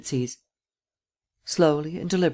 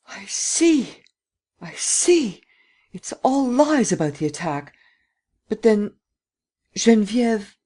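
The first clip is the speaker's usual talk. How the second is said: put-on higher, shaken old woman's voice; an elderly grandmother catching on in alarm; dismayed old lady; 7 semitones higher, slower than usual.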